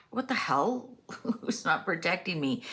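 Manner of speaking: half-acted outrage, lightly voiced; imitating angry Trump. Trump fuming that no one protects him, mock-annoyed. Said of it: "he was like".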